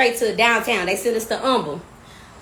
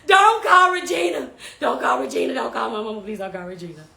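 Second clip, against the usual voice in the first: begging, fading. Retold or imitated.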